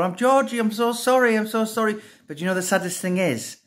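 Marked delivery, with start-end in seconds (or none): 0.0-2.0 high-pitched pleading, re-enacted; retold frantic apology. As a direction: plead after a fleeing pet, voice pitched up. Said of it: "running chasing her going".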